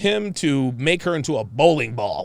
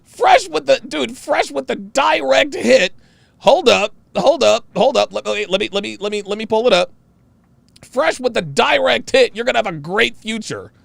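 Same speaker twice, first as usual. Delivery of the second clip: high, loud hype-man cheering; excited hype; 8 semitones higher, 5 dB louder than usual. Real, not acted. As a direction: crow over a direct hit. Excitedly hails a viewer's direct hit.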